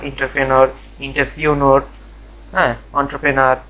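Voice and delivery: এন্টারপ্রেনার as "intar-penar", "intar-piunor", "ontro-penar"; others' mispronunciations. Shown as a demonstration. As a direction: list the wrong ways, এন্টারপ্রেনিউর with "piu-nor". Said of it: "এরকম উচ্চারণ করে।".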